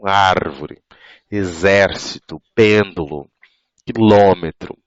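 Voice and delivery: 'árvore, exército, pêndulo, quilômetro' each stressed on the third-last syllable; antepenultimate stress. Shown as a demonstration. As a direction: list 'árvore, exército, pêndulo, quilômetro' with ÁR, ZÉR, PÊN, LÔ strong. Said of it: "a antepenúltima".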